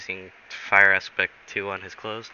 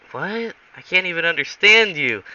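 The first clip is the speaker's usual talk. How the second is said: high-pitched, exasperated incomprehension; baffled; 7 semitones higher, 4 dB louder than usual. Acted. Pilot to the fake Russian guy, acted bafflement. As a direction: voice jumps up in disbelief. Baffled reply to garbled accent.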